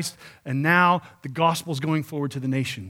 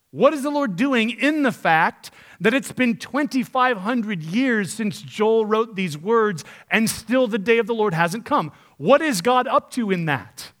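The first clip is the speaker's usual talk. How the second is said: impassioned preaching; 5 semitones higher, 5 dB louder, slower than usual. Acted. Preacher builds to challenge.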